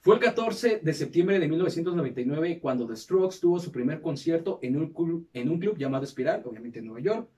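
measured documentary-style read; scripted narration. Acted. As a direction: read it out like a podcast history segment. Reads the episode script aloud.

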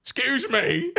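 put-on indignant high-pitched British accent; mock-offended, high and badly faked British. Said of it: "I did a British accent".

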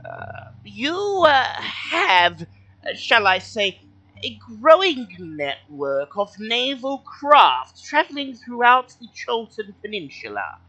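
high, slow, formal little kobold. Acted. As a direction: speak as a polite high-pitched kobold. GM voices kobold.

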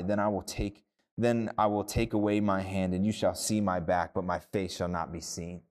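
measured scripture reading voice. Acted. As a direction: read the passage with solemn weight.

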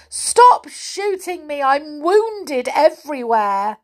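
high, loud plaintive wail; hammed-up wounded doll; Amelia Jane. A narrator's reading. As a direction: beg for it to stop. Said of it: "she cried".

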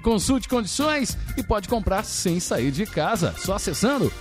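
upbeat announcer reading a car ad. Acted. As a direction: sell it like a radio commercial. Reads the Fiat Argo ad live.

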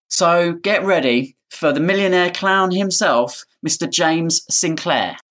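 hype-up announcer intro. Acted. Hyping the guest's entrance.

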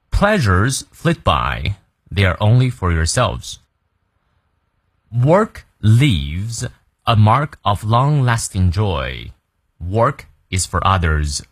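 slow, careful full read-through; slow model reading. Shown as a demonstration. Teacher leading a slow full read-through. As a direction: read it slowly for students to follow. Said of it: "从头到尾，我们来过两遍".

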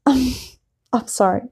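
laughing apology. Real, not acted. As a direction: say sorry through a laugh. Laughing apology after losing count.

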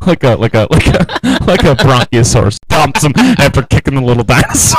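real laughter breaking up the words; laughing while talking. Real, not acted. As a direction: crack up and stumble through the story. Cracking up while retelling the ad.

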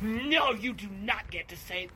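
mock outraged refusal; indignant woman. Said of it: "Like a woman, if you're like".

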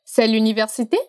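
"C'est l'université" climbing at the very end; rising question intonation. Shown as a demonstration. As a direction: start low, swing up on "université". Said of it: "Presta bem atenção na entonação".

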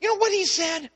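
worked-up husband venting to his wife. Retold or imitated. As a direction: fire the question at her, riled up. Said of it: "I'm kind of worked up at her".

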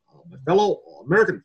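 halting Obama with "uh" pauses, lightly voiced; Obama impression. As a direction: stumble through like Obama. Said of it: "Kalau misalnya Obama".

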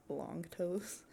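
whispered, half-laughing tease; teasing whisper. Real, not acted. Teasing a brother about his long toes, whispered. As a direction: whisper it like a secret jab.

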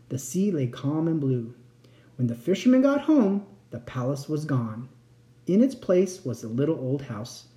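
expressive bedtime-story reading; story narration. A narrator's reading. Narrator telling a bedtime tale, expressive storytelling. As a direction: read it like a fairy tale for a child. Reads a fairy tale aloud.

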